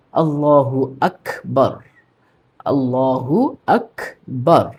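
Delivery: আল্লাহু আকবার said slowly, stress on আল্লাহু; correct pronunciation. Shown as a demonstration. Teacher giving viewers the correct form, slowly. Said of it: "শব্দটা কি হবে?".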